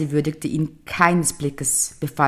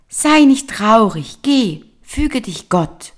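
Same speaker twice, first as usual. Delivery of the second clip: fish voice; 7 semitones higher, 6 dB louder, slower than usual. Acted. Fish comforting the old man.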